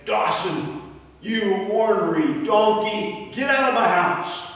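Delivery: woman of the house yelling at the donkey; scolding housewife. Acted. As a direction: shoo the donkey out of her house.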